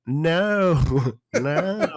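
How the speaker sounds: a hint of a bad actor's overdone no; mock Australian lifeguard. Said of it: "He's like".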